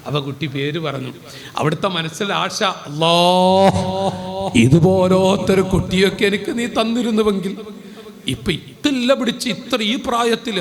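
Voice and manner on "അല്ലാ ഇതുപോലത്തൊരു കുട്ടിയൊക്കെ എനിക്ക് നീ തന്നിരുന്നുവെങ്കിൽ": a touch of yearning, a bit louder; old man longing for a child like this, mildly yearning; longing wish. Acted. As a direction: sigh the wish out to God. Old man's longing wish to God.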